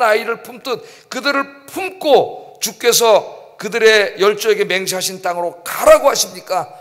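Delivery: acted indignant protest, leaning on key words; worked-up complaint to God, drawing out stressed words; agitated Moses. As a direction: plead in exasperated rhetorical questions. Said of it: "모세도 지금 격앙됐습니다".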